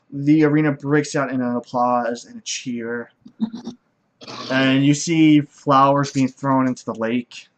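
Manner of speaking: ordinary talk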